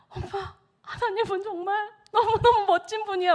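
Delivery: imitating a moved son, high and choked; high, crying boy's voice; tearful gushing. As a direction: gush to mum through mock tears. Son overwhelmed on the phone.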